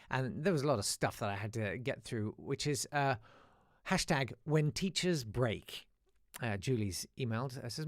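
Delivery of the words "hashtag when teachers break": slow, grand hashtag announcement; announcer voice. Acted. Host to listeners, slow grand title read. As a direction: announce the segment title like a headline. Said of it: "announcing hashtag".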